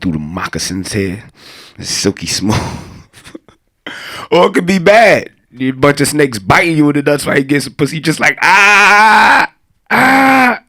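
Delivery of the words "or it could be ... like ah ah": mock pained cry. Comedian acting out snakebites, hammed-up pained yelps. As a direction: ham up snakebites in the crotch. Snakes biting him in the nuts.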